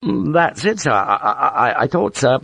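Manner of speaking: high, stuttering, losing confidence; nervous. A narrator's reading. Lieutenant about to suggest a plea, nervous. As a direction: begin high and stumble over the words. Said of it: "nervous again".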